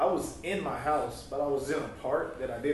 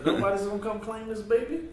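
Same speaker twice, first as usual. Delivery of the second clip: high, loud incredulous question; calling out; 9 semitones higher, 6 dB louder than usual. Retold or imitated. Neighbor seeking the baby's parent, loud incredulous call. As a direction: holler it high, expecting someone to answer. Asking street to claim baby.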